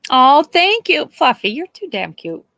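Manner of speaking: high, loud gushing at the pet; excited pet talk. Real, not acted. To Fluffy the pet, loud high gushing thanks. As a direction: gush over the pet.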